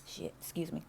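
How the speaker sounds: talking while choking on smoke. Real, not acted. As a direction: get words out between coughs. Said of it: "now I'm choking randomly".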